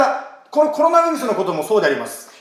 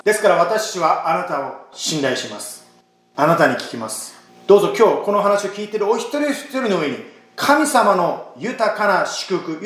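earnest, measured prayer voice. Acted. Pastor praying aloud over the congregation, earnest and measured. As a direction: pray sincerely for the listeners.

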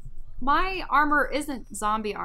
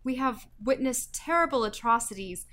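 louder, formal soldier voice; noble warrior; 8 dB louder than usual. Acted. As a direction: stand tall like a proud knight reporting. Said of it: "try to embody the noblest of Triton warriors".

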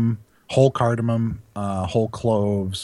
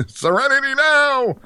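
very high, loud comic yell; screamed mock calm; 5 dB louder than usual. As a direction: insist on calm at a full scream. Mock calm screamed after venting.

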